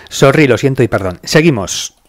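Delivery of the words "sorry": coughing. Real, not acted. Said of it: "perdón, es que me ahogo".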